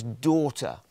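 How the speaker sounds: gentle and affectionate; tender address. Acted. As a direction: say it lovingly, as to a cherished child. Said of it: "I love the way he says that".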